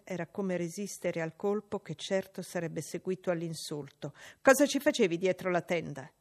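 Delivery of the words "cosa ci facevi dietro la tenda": loud, bossy demand; spoiled boy barking a question; demanding bully. Acted. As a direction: interrogate her like a little tyrant. John Reed's voice.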